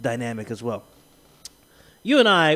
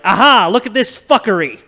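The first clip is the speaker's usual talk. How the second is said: gleeful gotcha; 3 semitones higher, 7 dB louder than usual. Retold or imitated. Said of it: "he's gonna be like".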